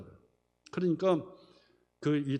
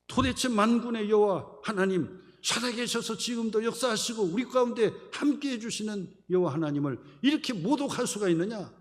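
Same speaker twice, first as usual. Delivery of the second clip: raised, higher-pitched indignant protest; unyielding outcry; 5 semitones higher, 4 dB louder than usual. Retold or imitated. David protests to his brothers that God is mocked, unyielding outcry. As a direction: act out David crying out, refusing to bend. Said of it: "굽히지 않고 막 소리를 지르니까".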